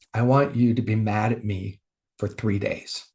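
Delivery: low, calm, measured instruction; gentle divine voice. Retold or imitated. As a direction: speak gently from deep within. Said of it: "I heard this gentle voice inside of me".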